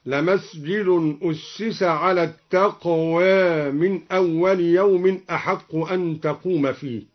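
التقوى ending tilted toward "e", "taqwē"; taqlil in التقوى. Shown as a demonstration. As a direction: soften the final alif of التقوى toward "ē". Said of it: "وكذا قوله تعالى". (تقليل ألف التقوى)

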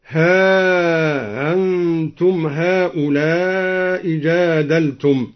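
slow chant, ها melting into أنتم without a glottal stop; eased hamza. Shown as a demonstration. Teacher showing the second permitted reading, ها أنتم with eased hamza. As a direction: soften the hamza of أنتم after ها, drawing out the long vowels. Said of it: "بتسهيل الهمزة بعدها، وله على ذلك المد والقصر".

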